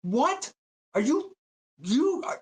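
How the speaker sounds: high, disbelieving mock scream; high pitched mock scream at the speaker; retold scream. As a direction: shriek it in outraged disbelief. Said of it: "oh, I was screaming".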